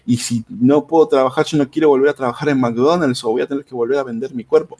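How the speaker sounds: high-pitched desperate whining plea. Retold or imitated. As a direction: imitate a panicked influencer begging. Desperate influencer's plea imitated.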